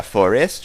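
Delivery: "forest" said as for-EST; wrong-syllable emphasis on forest. Retold or imitated. Imitating a YouTuber for a friend, "forest" stressed on its last syllable. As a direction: lean on the second syllable of "forest", mimicking. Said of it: "emphasis on the wrong syllable".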